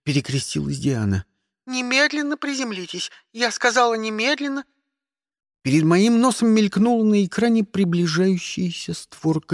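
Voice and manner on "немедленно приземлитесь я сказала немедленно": high, cold commanding operator; stern operator. Acted. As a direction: order them down firmly. (строгий приказ диспетчера)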